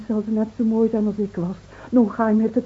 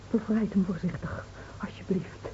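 soft pleading whisper; 11 dB quieter than usual. Acted. Smeekt zacht om voorzichtigheid.

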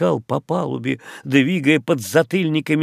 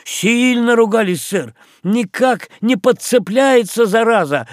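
excited retelling; 8 semitones higher, 5 dB louder than usual. Acted. Sailor retells captain's cursing.

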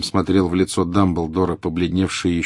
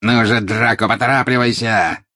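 louder, impatient; angry urging; 4 semitones higher, 5 dB louder than usual. A narrator's reading. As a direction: hurry the boy along. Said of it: "сердито воскликнул Жестоколицый". (сердито торопит Драко)

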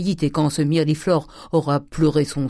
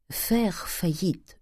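slow solemn repeat; 4 semitones higher, 5 dB quieter, much slower than usual. A narrator's reading.

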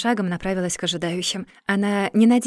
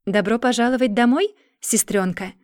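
cooing; 3 semitones higher than usual. Acted. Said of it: "проворковал".

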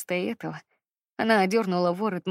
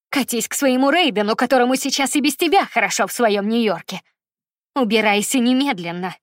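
louder, higher furious outburst; furious tirade; 3 semitones higher, 7 dB louder than usual. Acted. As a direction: throw her out in tearful rage. Mother throws daughter out, crying.

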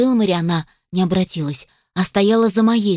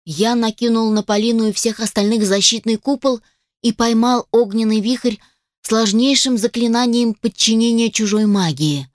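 ordinary delivery, nothing marked

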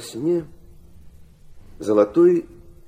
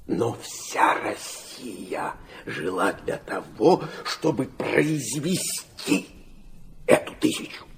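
hushed whisper; 5 dB quieter, slower than usual. Acted. Father confiding his deepest belief.

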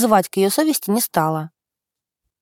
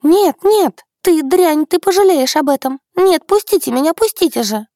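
high, loud frantic screams; hysterical screaming; 7 semitones higher, 4 dB louder than usual. A narrator's reading. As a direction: scream hysterically as they drag her. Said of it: "начала биться в истерике".

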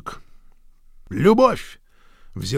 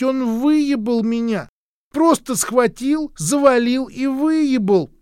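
high, slow, insistent repeated accusation; duchess insisting; 12 semitones higher, 4 dB louder, slower than usual. A narrator's reading. The duchess keeps telling everyone at the door, high and insistent. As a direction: keep hammering the claim, high and drawn out. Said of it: "Герцогиня всё твердила".

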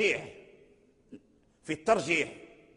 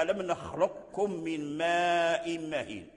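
Quran recitation; slower than usual. Shown as a demonstration. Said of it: "في قوله تعالى".

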